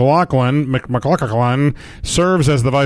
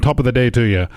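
stock Irish sign-off; quick fake Irish flourish; mock Irish; 3 semitones lower, faster than usual. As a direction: toss on a token Irish lilt. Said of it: "it sounds kind of Irish".

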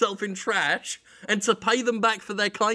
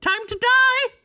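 high squeaky goblin, louder; 4 dB louder, slower than usual. Pretend. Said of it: "and you'd go".

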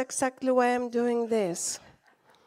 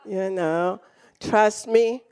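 gentle God voice; 6 semitones lower, slower than usual. Retold or imitated. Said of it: "and then it is".

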